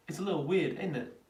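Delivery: light put-on British accent. Shown as a demonstration. Streamer tests accent for viewers, British accent. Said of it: "can I do a British accent".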